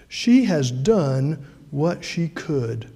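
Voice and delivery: each word slowed and weighted; slow emphatic repeat. Shown as a demonstration. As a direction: linger on every word to drive it home. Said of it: "isn't that wonderful?".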